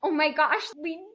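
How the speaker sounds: bright, high excited exclaim; excited gasp. Retold or imitated. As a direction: gush like you just realized. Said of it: "we were like".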